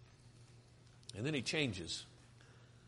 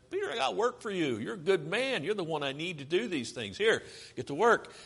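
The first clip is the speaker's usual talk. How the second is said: higher-pitched, upbeat acted encouragement; rally someone back to the job; lively pep talk, acted out; Jesus; 5 semitones higher than usual. Acts out Jesus reassuring, enlisting Peter.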